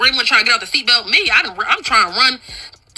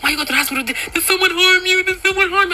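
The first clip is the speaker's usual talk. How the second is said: worried mom voice; 8 semitones higher, faster than usual. Retold or imitated. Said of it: "She like".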